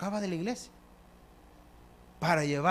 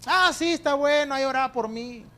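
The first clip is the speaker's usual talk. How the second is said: dismissive son; 6 semitones higher than usual. Retold or imitated. Rebellious son brushes off mother.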